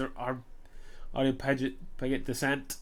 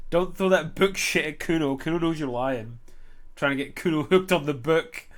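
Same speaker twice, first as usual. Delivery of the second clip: indignant, slightly louder retort; offended; 4 dB louder than usual. Acted. Boy refusing the officer's book talk, offended. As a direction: push back like an affronted kid. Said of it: "He seems offended".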